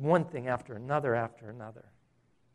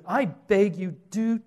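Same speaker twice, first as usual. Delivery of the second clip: mock plea pitched high and a bit louder; imitated desperate cry; 6 semitones higher, 4 dB louder, slower than usual. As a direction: act out a man crying out, begging. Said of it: "shouting at the top of his voice".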